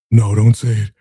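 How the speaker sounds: lightly hammed-up dramatic protest; mock dramatic. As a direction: imitate a man making a drama of it. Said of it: "he's so dramatic".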